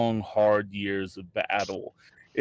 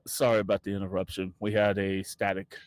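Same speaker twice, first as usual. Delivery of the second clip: quick, lower group excuse in unison; mock chorus excuse; 4 semitones lower, 4 dB quieter than usual. NPC staff excusing themselves in unison, quick and low. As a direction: rattle off a fake apology together. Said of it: "all of them at the same time, uh, say".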